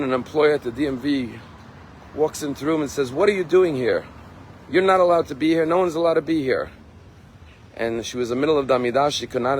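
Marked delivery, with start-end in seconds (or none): 3.1-6.7 sharp, raised, scolding voice; angry confrontation. Retold or imitated. DMV employee scolds the praying woman, loud and angry. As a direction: bark it at her like an annoyed clerk.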